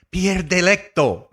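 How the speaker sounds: laughing Italian-style name; Italian accent. Shown as a demonstration. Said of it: "I'll work on it".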